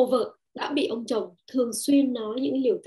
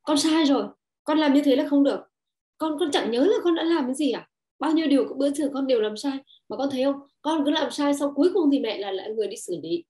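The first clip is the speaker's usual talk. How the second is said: scolding mother; 3 semitones higher, 4 dB louder than usual. Retold or imitated. Mother scolding her child, mock louder scolding. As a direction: nag the child about every mistake. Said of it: "ta nói với con là".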